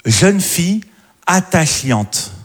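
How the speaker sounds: attachante stretched very slowly; drawn-out quote. Retold or imitated. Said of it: "elle avait écrit". ("attachante" traîné très lentement)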